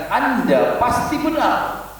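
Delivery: slow, high, ringing declaration; loud declaration. Retold or imitated. Abu Bakar affirms the Prophet before the crowd, slow and loud. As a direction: proclaim it slowly so all can hear. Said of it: "Dengan suara keras".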